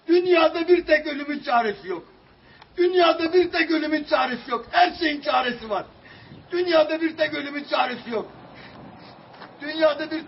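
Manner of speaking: a father breaking down and yelling; anguished shouting. Real, not acted. Desperate man pleading publicly.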